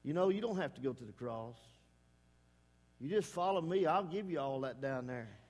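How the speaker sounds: low, mild devil voicing Satan's offer; lightly voiced devil tempting Jesus. Preacher voicing the devil tempting Jesus, low and sly. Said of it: "the old devils come there and said".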